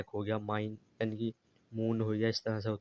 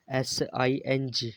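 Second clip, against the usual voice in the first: slow letter-by-letter spelling; spelled out; much slower than usual. Shown as a demonstration. Teacher spells a word for the class, slowly letter by letter. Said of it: "तो इसे हम बोलेंगे सिंह".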